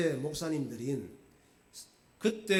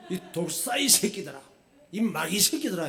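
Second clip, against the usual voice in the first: understated imitation of an angry curse; mild mock anger; 3 semitones higher, 4 dB louder than usual. Pastor paraphrasing Jesus cursing the Pharisees, mildly acted anger. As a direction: retell the insult with a touch of anger. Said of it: "얼마나 화가 나시는지".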